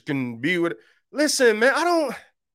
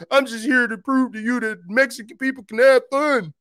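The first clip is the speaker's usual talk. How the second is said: higher, put-on cheerful voice; mock cheerful claim; 6 semitones higher than usual. Pastor mocking a claim about Mexican people, cheerful. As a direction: parody the same silly boast. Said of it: "what I'm about to say".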